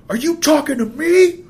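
high, loud defensive shout; shouted back. Retold or imitated. Skateboarder shouting back at the driver, defensive yell. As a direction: fire it back at him. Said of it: "he shouts back something like".

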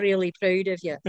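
imitated Scottish mum; Scottish accent. Daughter quoting her proud mum, in a Scottish accent. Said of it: "she said it in a Scottish accent".

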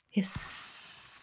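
long whispered hiss of water on fire; soft unvoiced hiss. A narrator's reading. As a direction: let it sizzle out like steam. Narrated sizzle of water on flames.

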